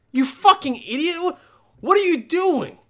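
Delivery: high, loud exasperated scolding; exasperated telling-off. Acted. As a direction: lay into someone for a stupid question. Acted rant at nosy woman.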